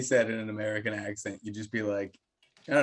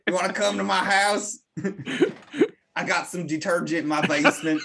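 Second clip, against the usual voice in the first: higher, laughing sleazy American offer; mock American dude; 6 semitones higher than usual. American stranger inviting her home, higher with a laugh. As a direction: lay it on like a creepy American guy.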